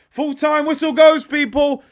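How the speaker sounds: high, very loud final-whistle call; excited shout. Real, not acted. Streamer announcing full time to viewers, excited shout. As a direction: shout it out in triumph.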